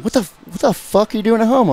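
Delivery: high-pitched, incredulous mock outburst; imitated outraged friend. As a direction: mimic a buddy who can't believe it. Friend's outraged reply on phone.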